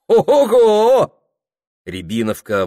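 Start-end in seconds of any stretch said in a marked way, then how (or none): 0.1-1.2 surprised ogo. Acted. Host sees guest drink a second cup.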